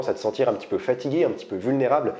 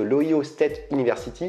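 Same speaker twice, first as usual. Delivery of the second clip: English name said with a French accent. Real, not acted. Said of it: "désolé pour mon accent anglais".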